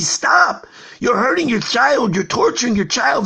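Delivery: shouted stop. Acted. Bystander stops the father.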